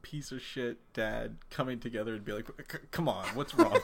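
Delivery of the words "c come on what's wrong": mock dad. Imitating the abusive dad.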